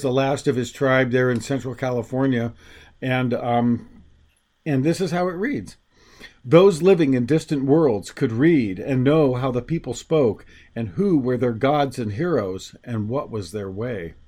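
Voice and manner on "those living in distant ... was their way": steady, measured reading voice; story narration. A narrator's reading. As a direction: read it like a storyteller. Reads excerpt from his book.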